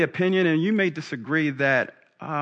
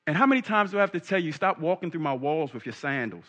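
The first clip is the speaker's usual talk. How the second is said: exasperated mother, starting high and quick; fed-up mom's rapid telling-off; Mary; 3 semitones higher than usual. Acted. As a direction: scold a child, falling away at the end. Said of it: "and Mary says".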